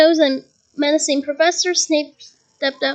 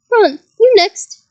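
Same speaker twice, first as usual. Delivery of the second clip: calling out; 5 semitones higher, 5 dB louder, slower than usual. A narrator's reading. Teacher calling on Ron.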